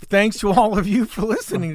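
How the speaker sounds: sign-off with an accidental pubescent crack; laughing start, voice jumping up; voice breaking upward. Real, not acted. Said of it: "My voice just broke and went up an octave".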